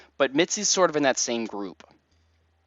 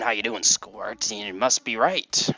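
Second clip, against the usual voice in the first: big friendly guy. Acted. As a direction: play a hearty pal greeting a little buddy. Voices Biff from the game.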